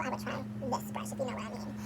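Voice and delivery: soft whisper, almost no voice. Real, not acted. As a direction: whisper it like a secret. Whispered recommendation.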